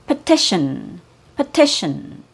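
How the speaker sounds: second T of "petition" said as SH. Shown as a demonstration. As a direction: demonstrate "petition" with a SH in "-tion". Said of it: "The second T has an S H sound".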